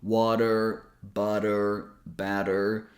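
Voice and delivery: each T a quick tongue tap; one word at a time, with the T tapped lightly. Shown as a demonstration. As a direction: say "water", "butter", "batter" with a flapped T. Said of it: "when T comes between two vowels".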